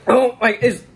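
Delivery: talking through a burning mouth; strained, spicy-hot speech; mouth burning from spicy food. Real, not acted. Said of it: "my mouth is on fire".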